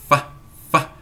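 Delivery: fá, fá with a voiceless f; breathy f with no buzz in fá; f sound demo. Shown as a demonstration. Teacher shows voiceless f to the class. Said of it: "É lábio inferior e dente superior".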